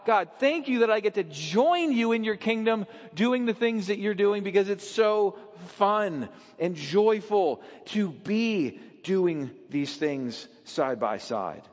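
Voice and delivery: lightly joyful, slowing and softening at the end; thankful and at peace; beloved child thanking God; grateful. Acted. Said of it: "from this place of already being loved".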